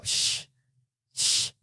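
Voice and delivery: soft shush. Shown as a demonstration. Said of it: "put it to his lips and go".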